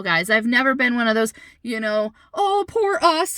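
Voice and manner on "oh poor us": high, slow put-on whine; drawn-out sarcastic lament; mock self-pity. Mother disowning the self-pitying parent act, mock self-pity. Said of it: "never been one of those people".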